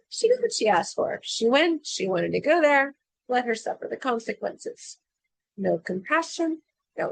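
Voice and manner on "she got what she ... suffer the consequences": callous dismissal. Retold or imitated. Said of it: "basically say".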